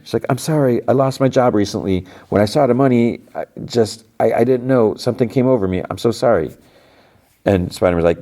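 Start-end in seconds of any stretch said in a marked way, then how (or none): 0.3-6.5 a higher, lightly tearful apology; mock crying plea. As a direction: plead through pretend tears, understated. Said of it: "So the woman's still crying".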